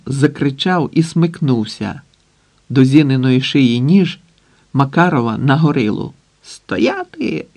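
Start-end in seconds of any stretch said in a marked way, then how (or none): 6.4-7.5 sharp high shouted command; furious yell. Acted. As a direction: bellow it in rage. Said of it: "горлав люто". (лютий крик)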